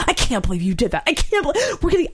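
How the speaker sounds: high, fast rant breaking into laughter; laughing exasperation. Retold or imitated. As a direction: rant at her while cracking up.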